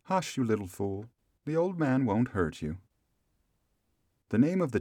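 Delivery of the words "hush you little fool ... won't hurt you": softer hushing voice; soothing mother. A narrator's reading. Mother calms child scared of old man, soft hushing.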